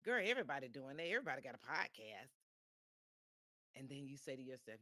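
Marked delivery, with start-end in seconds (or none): 0.0-2.3 a hint of a sassy, dismissive friend; doubting friend. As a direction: lightly voice the naysayer scoffing at the plan. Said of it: "that person who said".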